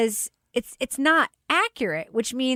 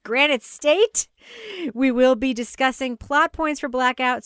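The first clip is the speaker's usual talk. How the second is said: podcast presenter teeing up a review; scripted intro read. Acted. Host setting up the review for listeners, scripted presenter read. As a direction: read the setup and spoiler notice from a script.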